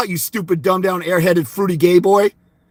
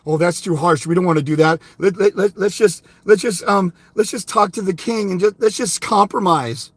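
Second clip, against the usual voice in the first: lower, hesitant mock of cowardly nobles; mocking timid aristocrats; 3 semitones lower than usual. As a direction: stammer it out like a spineless aristocrat. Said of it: "the aristocrats are like".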